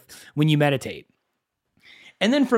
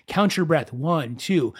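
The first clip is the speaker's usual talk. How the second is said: calm app voice. Retold or imitated. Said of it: "he's got this really calm voice".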